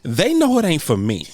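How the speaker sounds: laughing through the line; chuckling as he says it. Real, not acted. Laughing at own joke.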